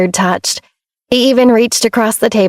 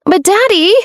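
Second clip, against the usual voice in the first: whiny plea; 12 semitones higher than usual. A narrator's reading. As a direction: plead with daddy on the edge of tears. Daughter pleading before tears.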